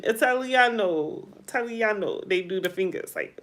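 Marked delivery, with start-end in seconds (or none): 0.0-2.2 mock Italian. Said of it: "that's the Italian thing when you say".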